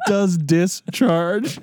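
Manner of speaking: slow, laughing title call; giggly mock announcer; mock show announcer. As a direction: drag out the title while laughing. Repeating segment title.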